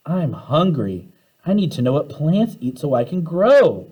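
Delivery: cried. Acted. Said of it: "Phoebe cried".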